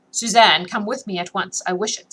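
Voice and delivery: peremptory. Acted. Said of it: "said the Comtesse peremptorily".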